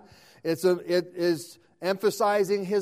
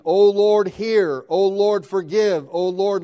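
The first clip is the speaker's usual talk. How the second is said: crying out in prayer; 5 dB louder than usual. Acted. Reading Daniel's prayer aloud.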